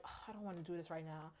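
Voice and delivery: soft, low, quick mock complaint; imitated reluctance, dropped voice; reluctant grumble. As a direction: grumble it under your breath. Voicing son's reluctance.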